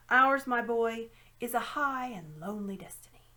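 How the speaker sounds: put-on pompous old magician preaching; pompous old uncle. Uncle Andrew lectures grandly.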